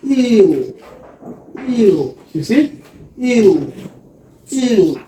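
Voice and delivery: eel said clearly for learners; model word for class. Shown as a demonstration. Teacher drilling a word with the class, clear and careful. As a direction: repeat eel for the class to copy. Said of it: "also we have eel".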